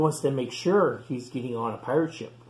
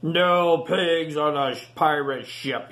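pirate captain; 2 semitones higher, 5 dB louder, slower than usual. Acted. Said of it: "he said".

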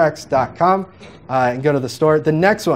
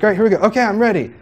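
higher, keen; eager readiness; 6 semitones higher, much faster than usual. Retold or imitated. Matt getting ready to record, higher eager mock voice. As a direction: sound pumped to start recording. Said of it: "It's like".

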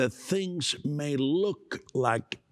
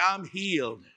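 declaring; 4 semitones higher, 3 dB louder than usual. Shown as a demonstration.

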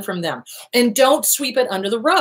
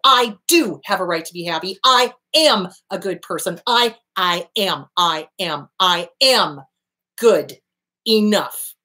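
angry letter; 3 semitones lower than usual. Shown as a demonstration. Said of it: "Write your abuser a letter".

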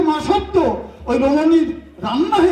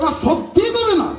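higher, half-laughing coaxing question; laughing plea; 7 semitones higher than usual. Acted. Sriram coaxing the woman for rice, laughing. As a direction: coax her through a laugh.

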